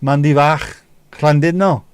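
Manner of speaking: "Llandudno" loud, with a hard throaty Ll; emphatic Welsh pronunciation. Shown as a demonstration. Checking with Mandy if it's right, loud Welsh pronunciation. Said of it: "is that right".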